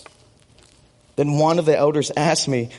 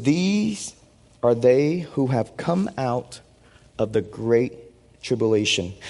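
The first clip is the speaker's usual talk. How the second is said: scripture reading. Acted. Reads Revelation passage aloud.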